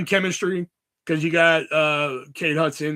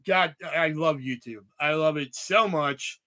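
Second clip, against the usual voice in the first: sarcastic; slower than usual. Retold or imitated. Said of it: "I'm being sarcastic".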